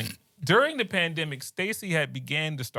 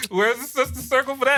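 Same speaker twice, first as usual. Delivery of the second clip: louder, higher joking protest; comic outcry; 10 semitones higher, 6 dB louder than usual. Real, not acted. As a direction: demand it louder for laughs.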